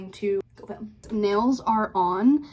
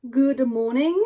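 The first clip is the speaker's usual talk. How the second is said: higher, louder greeting with an Australian accent; 4 semitones higher, 5 dB louder, slower than usual. Real, not acted. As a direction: say it in a light Aussie accent. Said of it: "stuck in an Australian accent".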